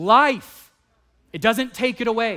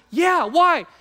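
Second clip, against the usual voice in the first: retold breezy brother-in-law; 10 semitones higher, 4 dB louder than usual. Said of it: "he goes".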